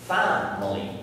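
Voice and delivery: "Family" stressed on its first syllable. Shown as a demonstration. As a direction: put the weight on the start of "Family". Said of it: "has it in the first syllable".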